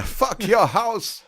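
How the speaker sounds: slow, drawn-out mock wrestler growl; wrestler catchphrase. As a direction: stretch it like a hammy wrestler.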